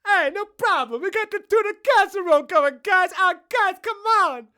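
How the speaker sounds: high shout. Acted. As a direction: call to the guys in a squeaky yell.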